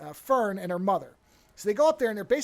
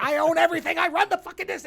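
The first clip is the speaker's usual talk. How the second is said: higher, louder over-the-top gloat; hammed-up gloating villain; 8 semitones higher, 4 dB louder, faster than usual. Villain gloating in his tower of power, hammed-up gloating. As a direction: ham up a villain drunk on power. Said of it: "I mean, he's not doing it like that".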